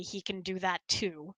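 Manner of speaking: ordinary talk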